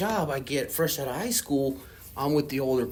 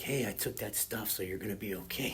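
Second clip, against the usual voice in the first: softer, hushed security guard aside; retold whisper; 4 semitones lower, 10 dB quieter than usual. Security guard tells him quietly he took the dope, hushed. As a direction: lean in and keep it secret. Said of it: "I remember him whispering in my ear".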